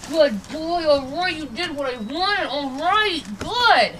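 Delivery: high, warm praise to the dog; praising the dog for doing it right. Real, not acted. Trainer praising her dog, bright and high.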